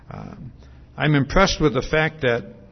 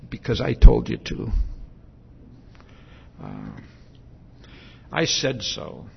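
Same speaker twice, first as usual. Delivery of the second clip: parent closing argument; 5 semitones lower than usual. Retold or imitated. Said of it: "you close the discussion with".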